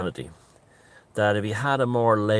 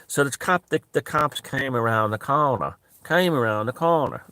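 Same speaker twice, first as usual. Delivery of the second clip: higher-pitched repeat of "came around the corner"; repeating for emphasis; 4 semitones higher than usual. Shown as a demonstration. Showing how catfish repeats himself, emphatic echo of "came around the corner". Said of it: "instead of an exclamation mark".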